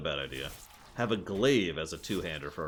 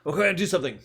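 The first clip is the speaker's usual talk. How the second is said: mock excited; 9 semitones higher, 7 dB louder, much faster than usual. Imitating rogue gameplay.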